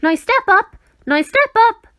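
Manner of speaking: high, loud call; calling advice. A narrator's reading. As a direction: sing out the instruction loudly. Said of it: "it recommended".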